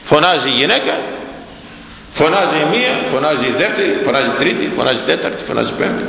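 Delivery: a counting chant dying away; fading list. Acted. Preacher to congregation, list fading out.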